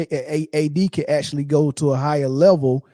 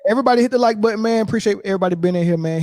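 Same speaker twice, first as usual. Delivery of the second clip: hyped up; 6 semitones higher, faster than usual. Real, not acted. Hyping the live audience.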